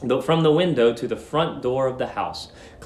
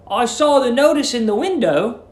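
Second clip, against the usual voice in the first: lightly voiced young Billy; 8 semitones higher than usual.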